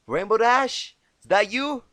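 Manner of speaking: loud, high, exasperated calling; annoyed call. Acted. Applejack calls over the wall, annoyed. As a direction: shout it over the wall, irritated. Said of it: "began in an annoyed voice".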